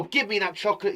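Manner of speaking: exclaiming demand. Shown as a demonstration. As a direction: demand it right now. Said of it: "It could be an exclamation".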